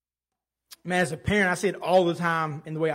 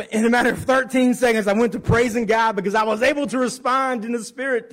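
laughing; 6 semitones higher, 6 dB louder than usual. Real, not acted. Laughing recounting the flip.

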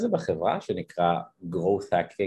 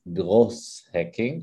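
growth hacking in a Hebrew accent, slow; slow Israeli-accented English; much slower than usual. Shown as a demonstration. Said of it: "שיגיד את זה במבטא ישראלי".

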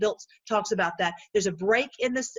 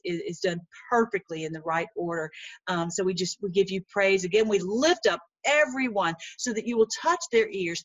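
prayer. Real, not acted. Preacher closing in prayer with the listeners, earnest. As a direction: pray to the Lord, sincerely.

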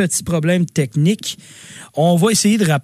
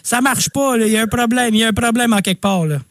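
worried; 6 semitones higher than usual. Retold or imitated. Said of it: "J'étais genre".

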